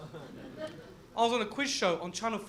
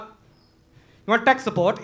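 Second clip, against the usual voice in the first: nerdy tech guy; 7 dB louder, much slower than usual. Pretend. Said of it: "look, look, like".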